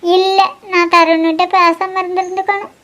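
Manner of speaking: crying with self-blame; regretful, through tears; tearful regret. Acted. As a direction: let the regret come out tearfully. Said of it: "நீ அழுதுகிட்டு இருக்க".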